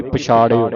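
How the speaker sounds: loud ਪਛਾੜਿਓ ending "-ṛio"; i sound. Shown as a demonstration. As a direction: stress the i vowel in ਪਛਾੜਿਓ. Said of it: "ਈੜੀ ਦੀ ਆਵਾਜ਼".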